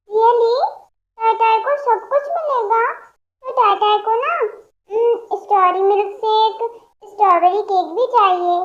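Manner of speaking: put-on a little girl begging for milk and a piggyback; demanding toddler. Childlike patient wants treats.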